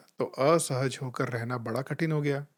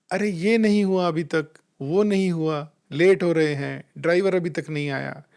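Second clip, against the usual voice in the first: imitating a tense, whining family member; strained, whiny complaining; 2 semitones higher, 4 dB louder than usual. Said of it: "ये परेशानी भरी आवाज़ समझ आती है".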